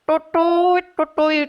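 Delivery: mock flute toot with the mouth; playful imitated flute sound. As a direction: toot like a Sundanese bamboo flute. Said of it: "seluring Kabayan".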